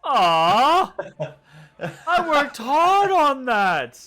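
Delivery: high, loud squealing whine; squealing protest. Acted. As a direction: squeal like a slapped drunk. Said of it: "squeals that you go to swing".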